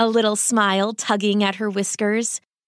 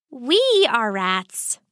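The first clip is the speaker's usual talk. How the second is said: patiently; 2 semitones higher, slower than usual. Acted. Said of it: "Sakura said patiently".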